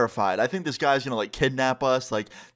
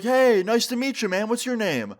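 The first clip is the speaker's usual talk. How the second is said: a hint of a chummy old captain, pitched up; old boyfriend's greeting; 10 semitones higher than usual. Boat owner Greg voiced in story.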